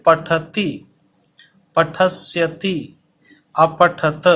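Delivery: each syllable drawn out very slowly for copying; teacher dictating at a crawl; slow dictation. Shown as a demonstration. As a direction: spell it out slowly so students can write. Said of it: "इसीलिए धीरे धीरे बोल रहा हूँ".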